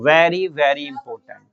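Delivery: very very important drawn out slowly; slow emphasis. Shown as a demonstration. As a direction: lean on very to make them remember. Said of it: "इसको याद कर लो". (धीमे ज़ोर से)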